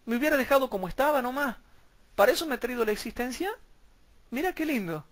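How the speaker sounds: fast, high ironic complaint; mock son, ironic whine; sarcastic mock son. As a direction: grumble it in mock disappointment. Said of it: "le dice el Hijo".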